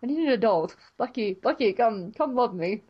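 lightly voiced, plaintive hero; joking, hammed-up appeal; Steve impression. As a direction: plead in a mock-earnest hero voice. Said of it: "That's right now my Steve voice".

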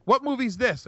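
wife not recognising her own pick, mild confusion; mock puzzled wife. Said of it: "She's like".

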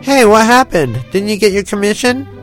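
high, loud worried question; a touch of worry in an eager voice; concerned. A narrator's reading. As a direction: press with sudden concern. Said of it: "His expression grew concerned".

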